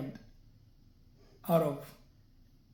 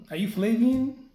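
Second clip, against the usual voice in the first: raised, questioning caller voice; 6 semitones higher, 5 dB louder than usual. Retold or imitated. Retelling the scam caller's opening question, lightly voiced. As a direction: ask it like a stranger on the phone.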